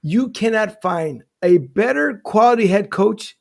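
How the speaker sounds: slow, drawn-out delivery; measured, teasing slow build; deliberate build-up. Real, not acted. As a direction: draw it out before the big reveal. Drawn-out build-up to the joke pick.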